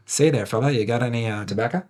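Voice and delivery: light Yankee accent, retold; New England accent. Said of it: "like that New England type accent".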